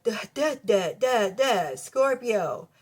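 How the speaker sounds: slow, dopey stammer on the duhs; a light dopey stammer; nervous stammer. Retold or imitated. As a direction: play a tongue-tied admirer, drawn out. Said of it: "they're like, nervous".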